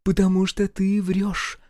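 high, slow accusing statement; drawn-out, certain accusation; categorical. A narrator's reading. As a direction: declare it with no room for argument. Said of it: "безапелляционно заявила Гюрза".

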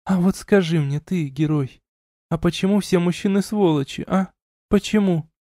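tipsy heroine pleading why; drunk young woman. A narrator's reading. Elina drunk, questioning.

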